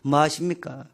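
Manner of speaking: mock-furious pleading that builds in volume; angry complaint. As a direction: act out an indignant rant at God, starting restrained and rising to loud. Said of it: "하나님께 막 화를 막 냈어요".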